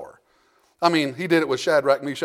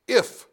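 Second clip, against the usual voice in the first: a lone, higher-pitched "If"; stress on IF; 4 semitones higher than usual. Shown as a demonstration. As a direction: underline "If" by setting it apart. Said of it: "I want you to underline that word".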